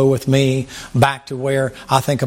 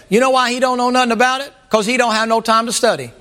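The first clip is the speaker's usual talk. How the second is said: higher, slowed, preachy mock sermon voice; imitating an old preacher; 8 semitones higher than usual. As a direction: ham up the old preacher scolding the congregation. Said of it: "then he paused and he said".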